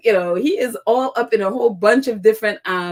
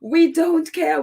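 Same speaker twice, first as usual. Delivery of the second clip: higher and a bit louder, pressing the point; firm repeat; 6 semitones higher, 4 dB louder, slower than usual. Retold or imitated. Repeating it to the British press, firm and emphatic. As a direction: say it flatly, like you mean it. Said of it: "And it's just like".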